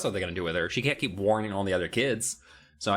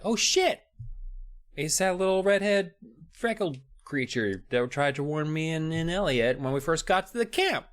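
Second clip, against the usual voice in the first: startled outburst; 6 semitones higher than usual. Acted. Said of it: "And then Wendy's like".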